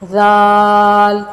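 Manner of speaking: ذال drawn out softly, tongue tip on the front teeth, no hiss; ذال soft and long, with no hiss; soft zal. Shown as a demonstration. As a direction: stretch ذال slow and gentle, no whistle. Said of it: "ذال کو بھی سا کی طرح نرمی سے پڑھیں گے".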